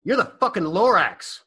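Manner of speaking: put-on high, laughing drunk voice. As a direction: crack up while naming him. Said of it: "And he goes".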